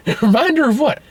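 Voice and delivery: put-on high, squeaky child voice; put-on wide-eyed child question; little girl. Girl questions Joe about the reminder, little girl voice. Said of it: "Or the little girl finds".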